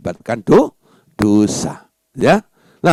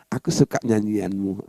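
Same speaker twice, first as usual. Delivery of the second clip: calm affirmation; 5 semitones lower, 6 dB quieter than usual. Shown as a demonstration. Models a calm accepting affirmation.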